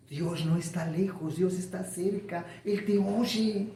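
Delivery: hushed, acted pastoral comfort; soft reassurance. Pastor telling a brother God is near, softly reassuring. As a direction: reassure softly, drawing out the ending.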